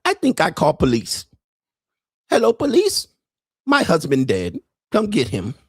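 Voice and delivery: a lightly put-on Asian accent, flat and unbothered; mock Asian accent. Wife reports her dead husband to the police, mild mock accent. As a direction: call the police as if nothing happened, a hint of accent.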